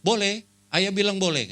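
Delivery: high, bright child's plea imitated; child voice pleading for chocolate; child asking mom. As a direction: ask mom sweetly like a small kid. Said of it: "Dia bilang".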